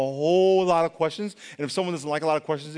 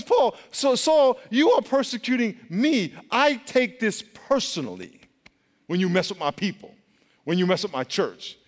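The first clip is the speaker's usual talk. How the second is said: voicing God; 4 semitones higher than usual. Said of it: "he says".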